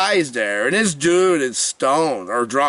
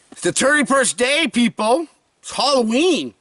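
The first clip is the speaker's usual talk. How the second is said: excited; 7 semitones higher than usual. Real, not acted. Celebrating last day.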